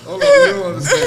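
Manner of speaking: high, laughing protest; cracking up at the story. Real, not acted. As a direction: burst out laughing as you say it.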